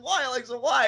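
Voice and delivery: high pleading whine; whiny fan. Retold or imitated. Fan begging Alexa for attention, high mock whine. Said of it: "Like, he's like".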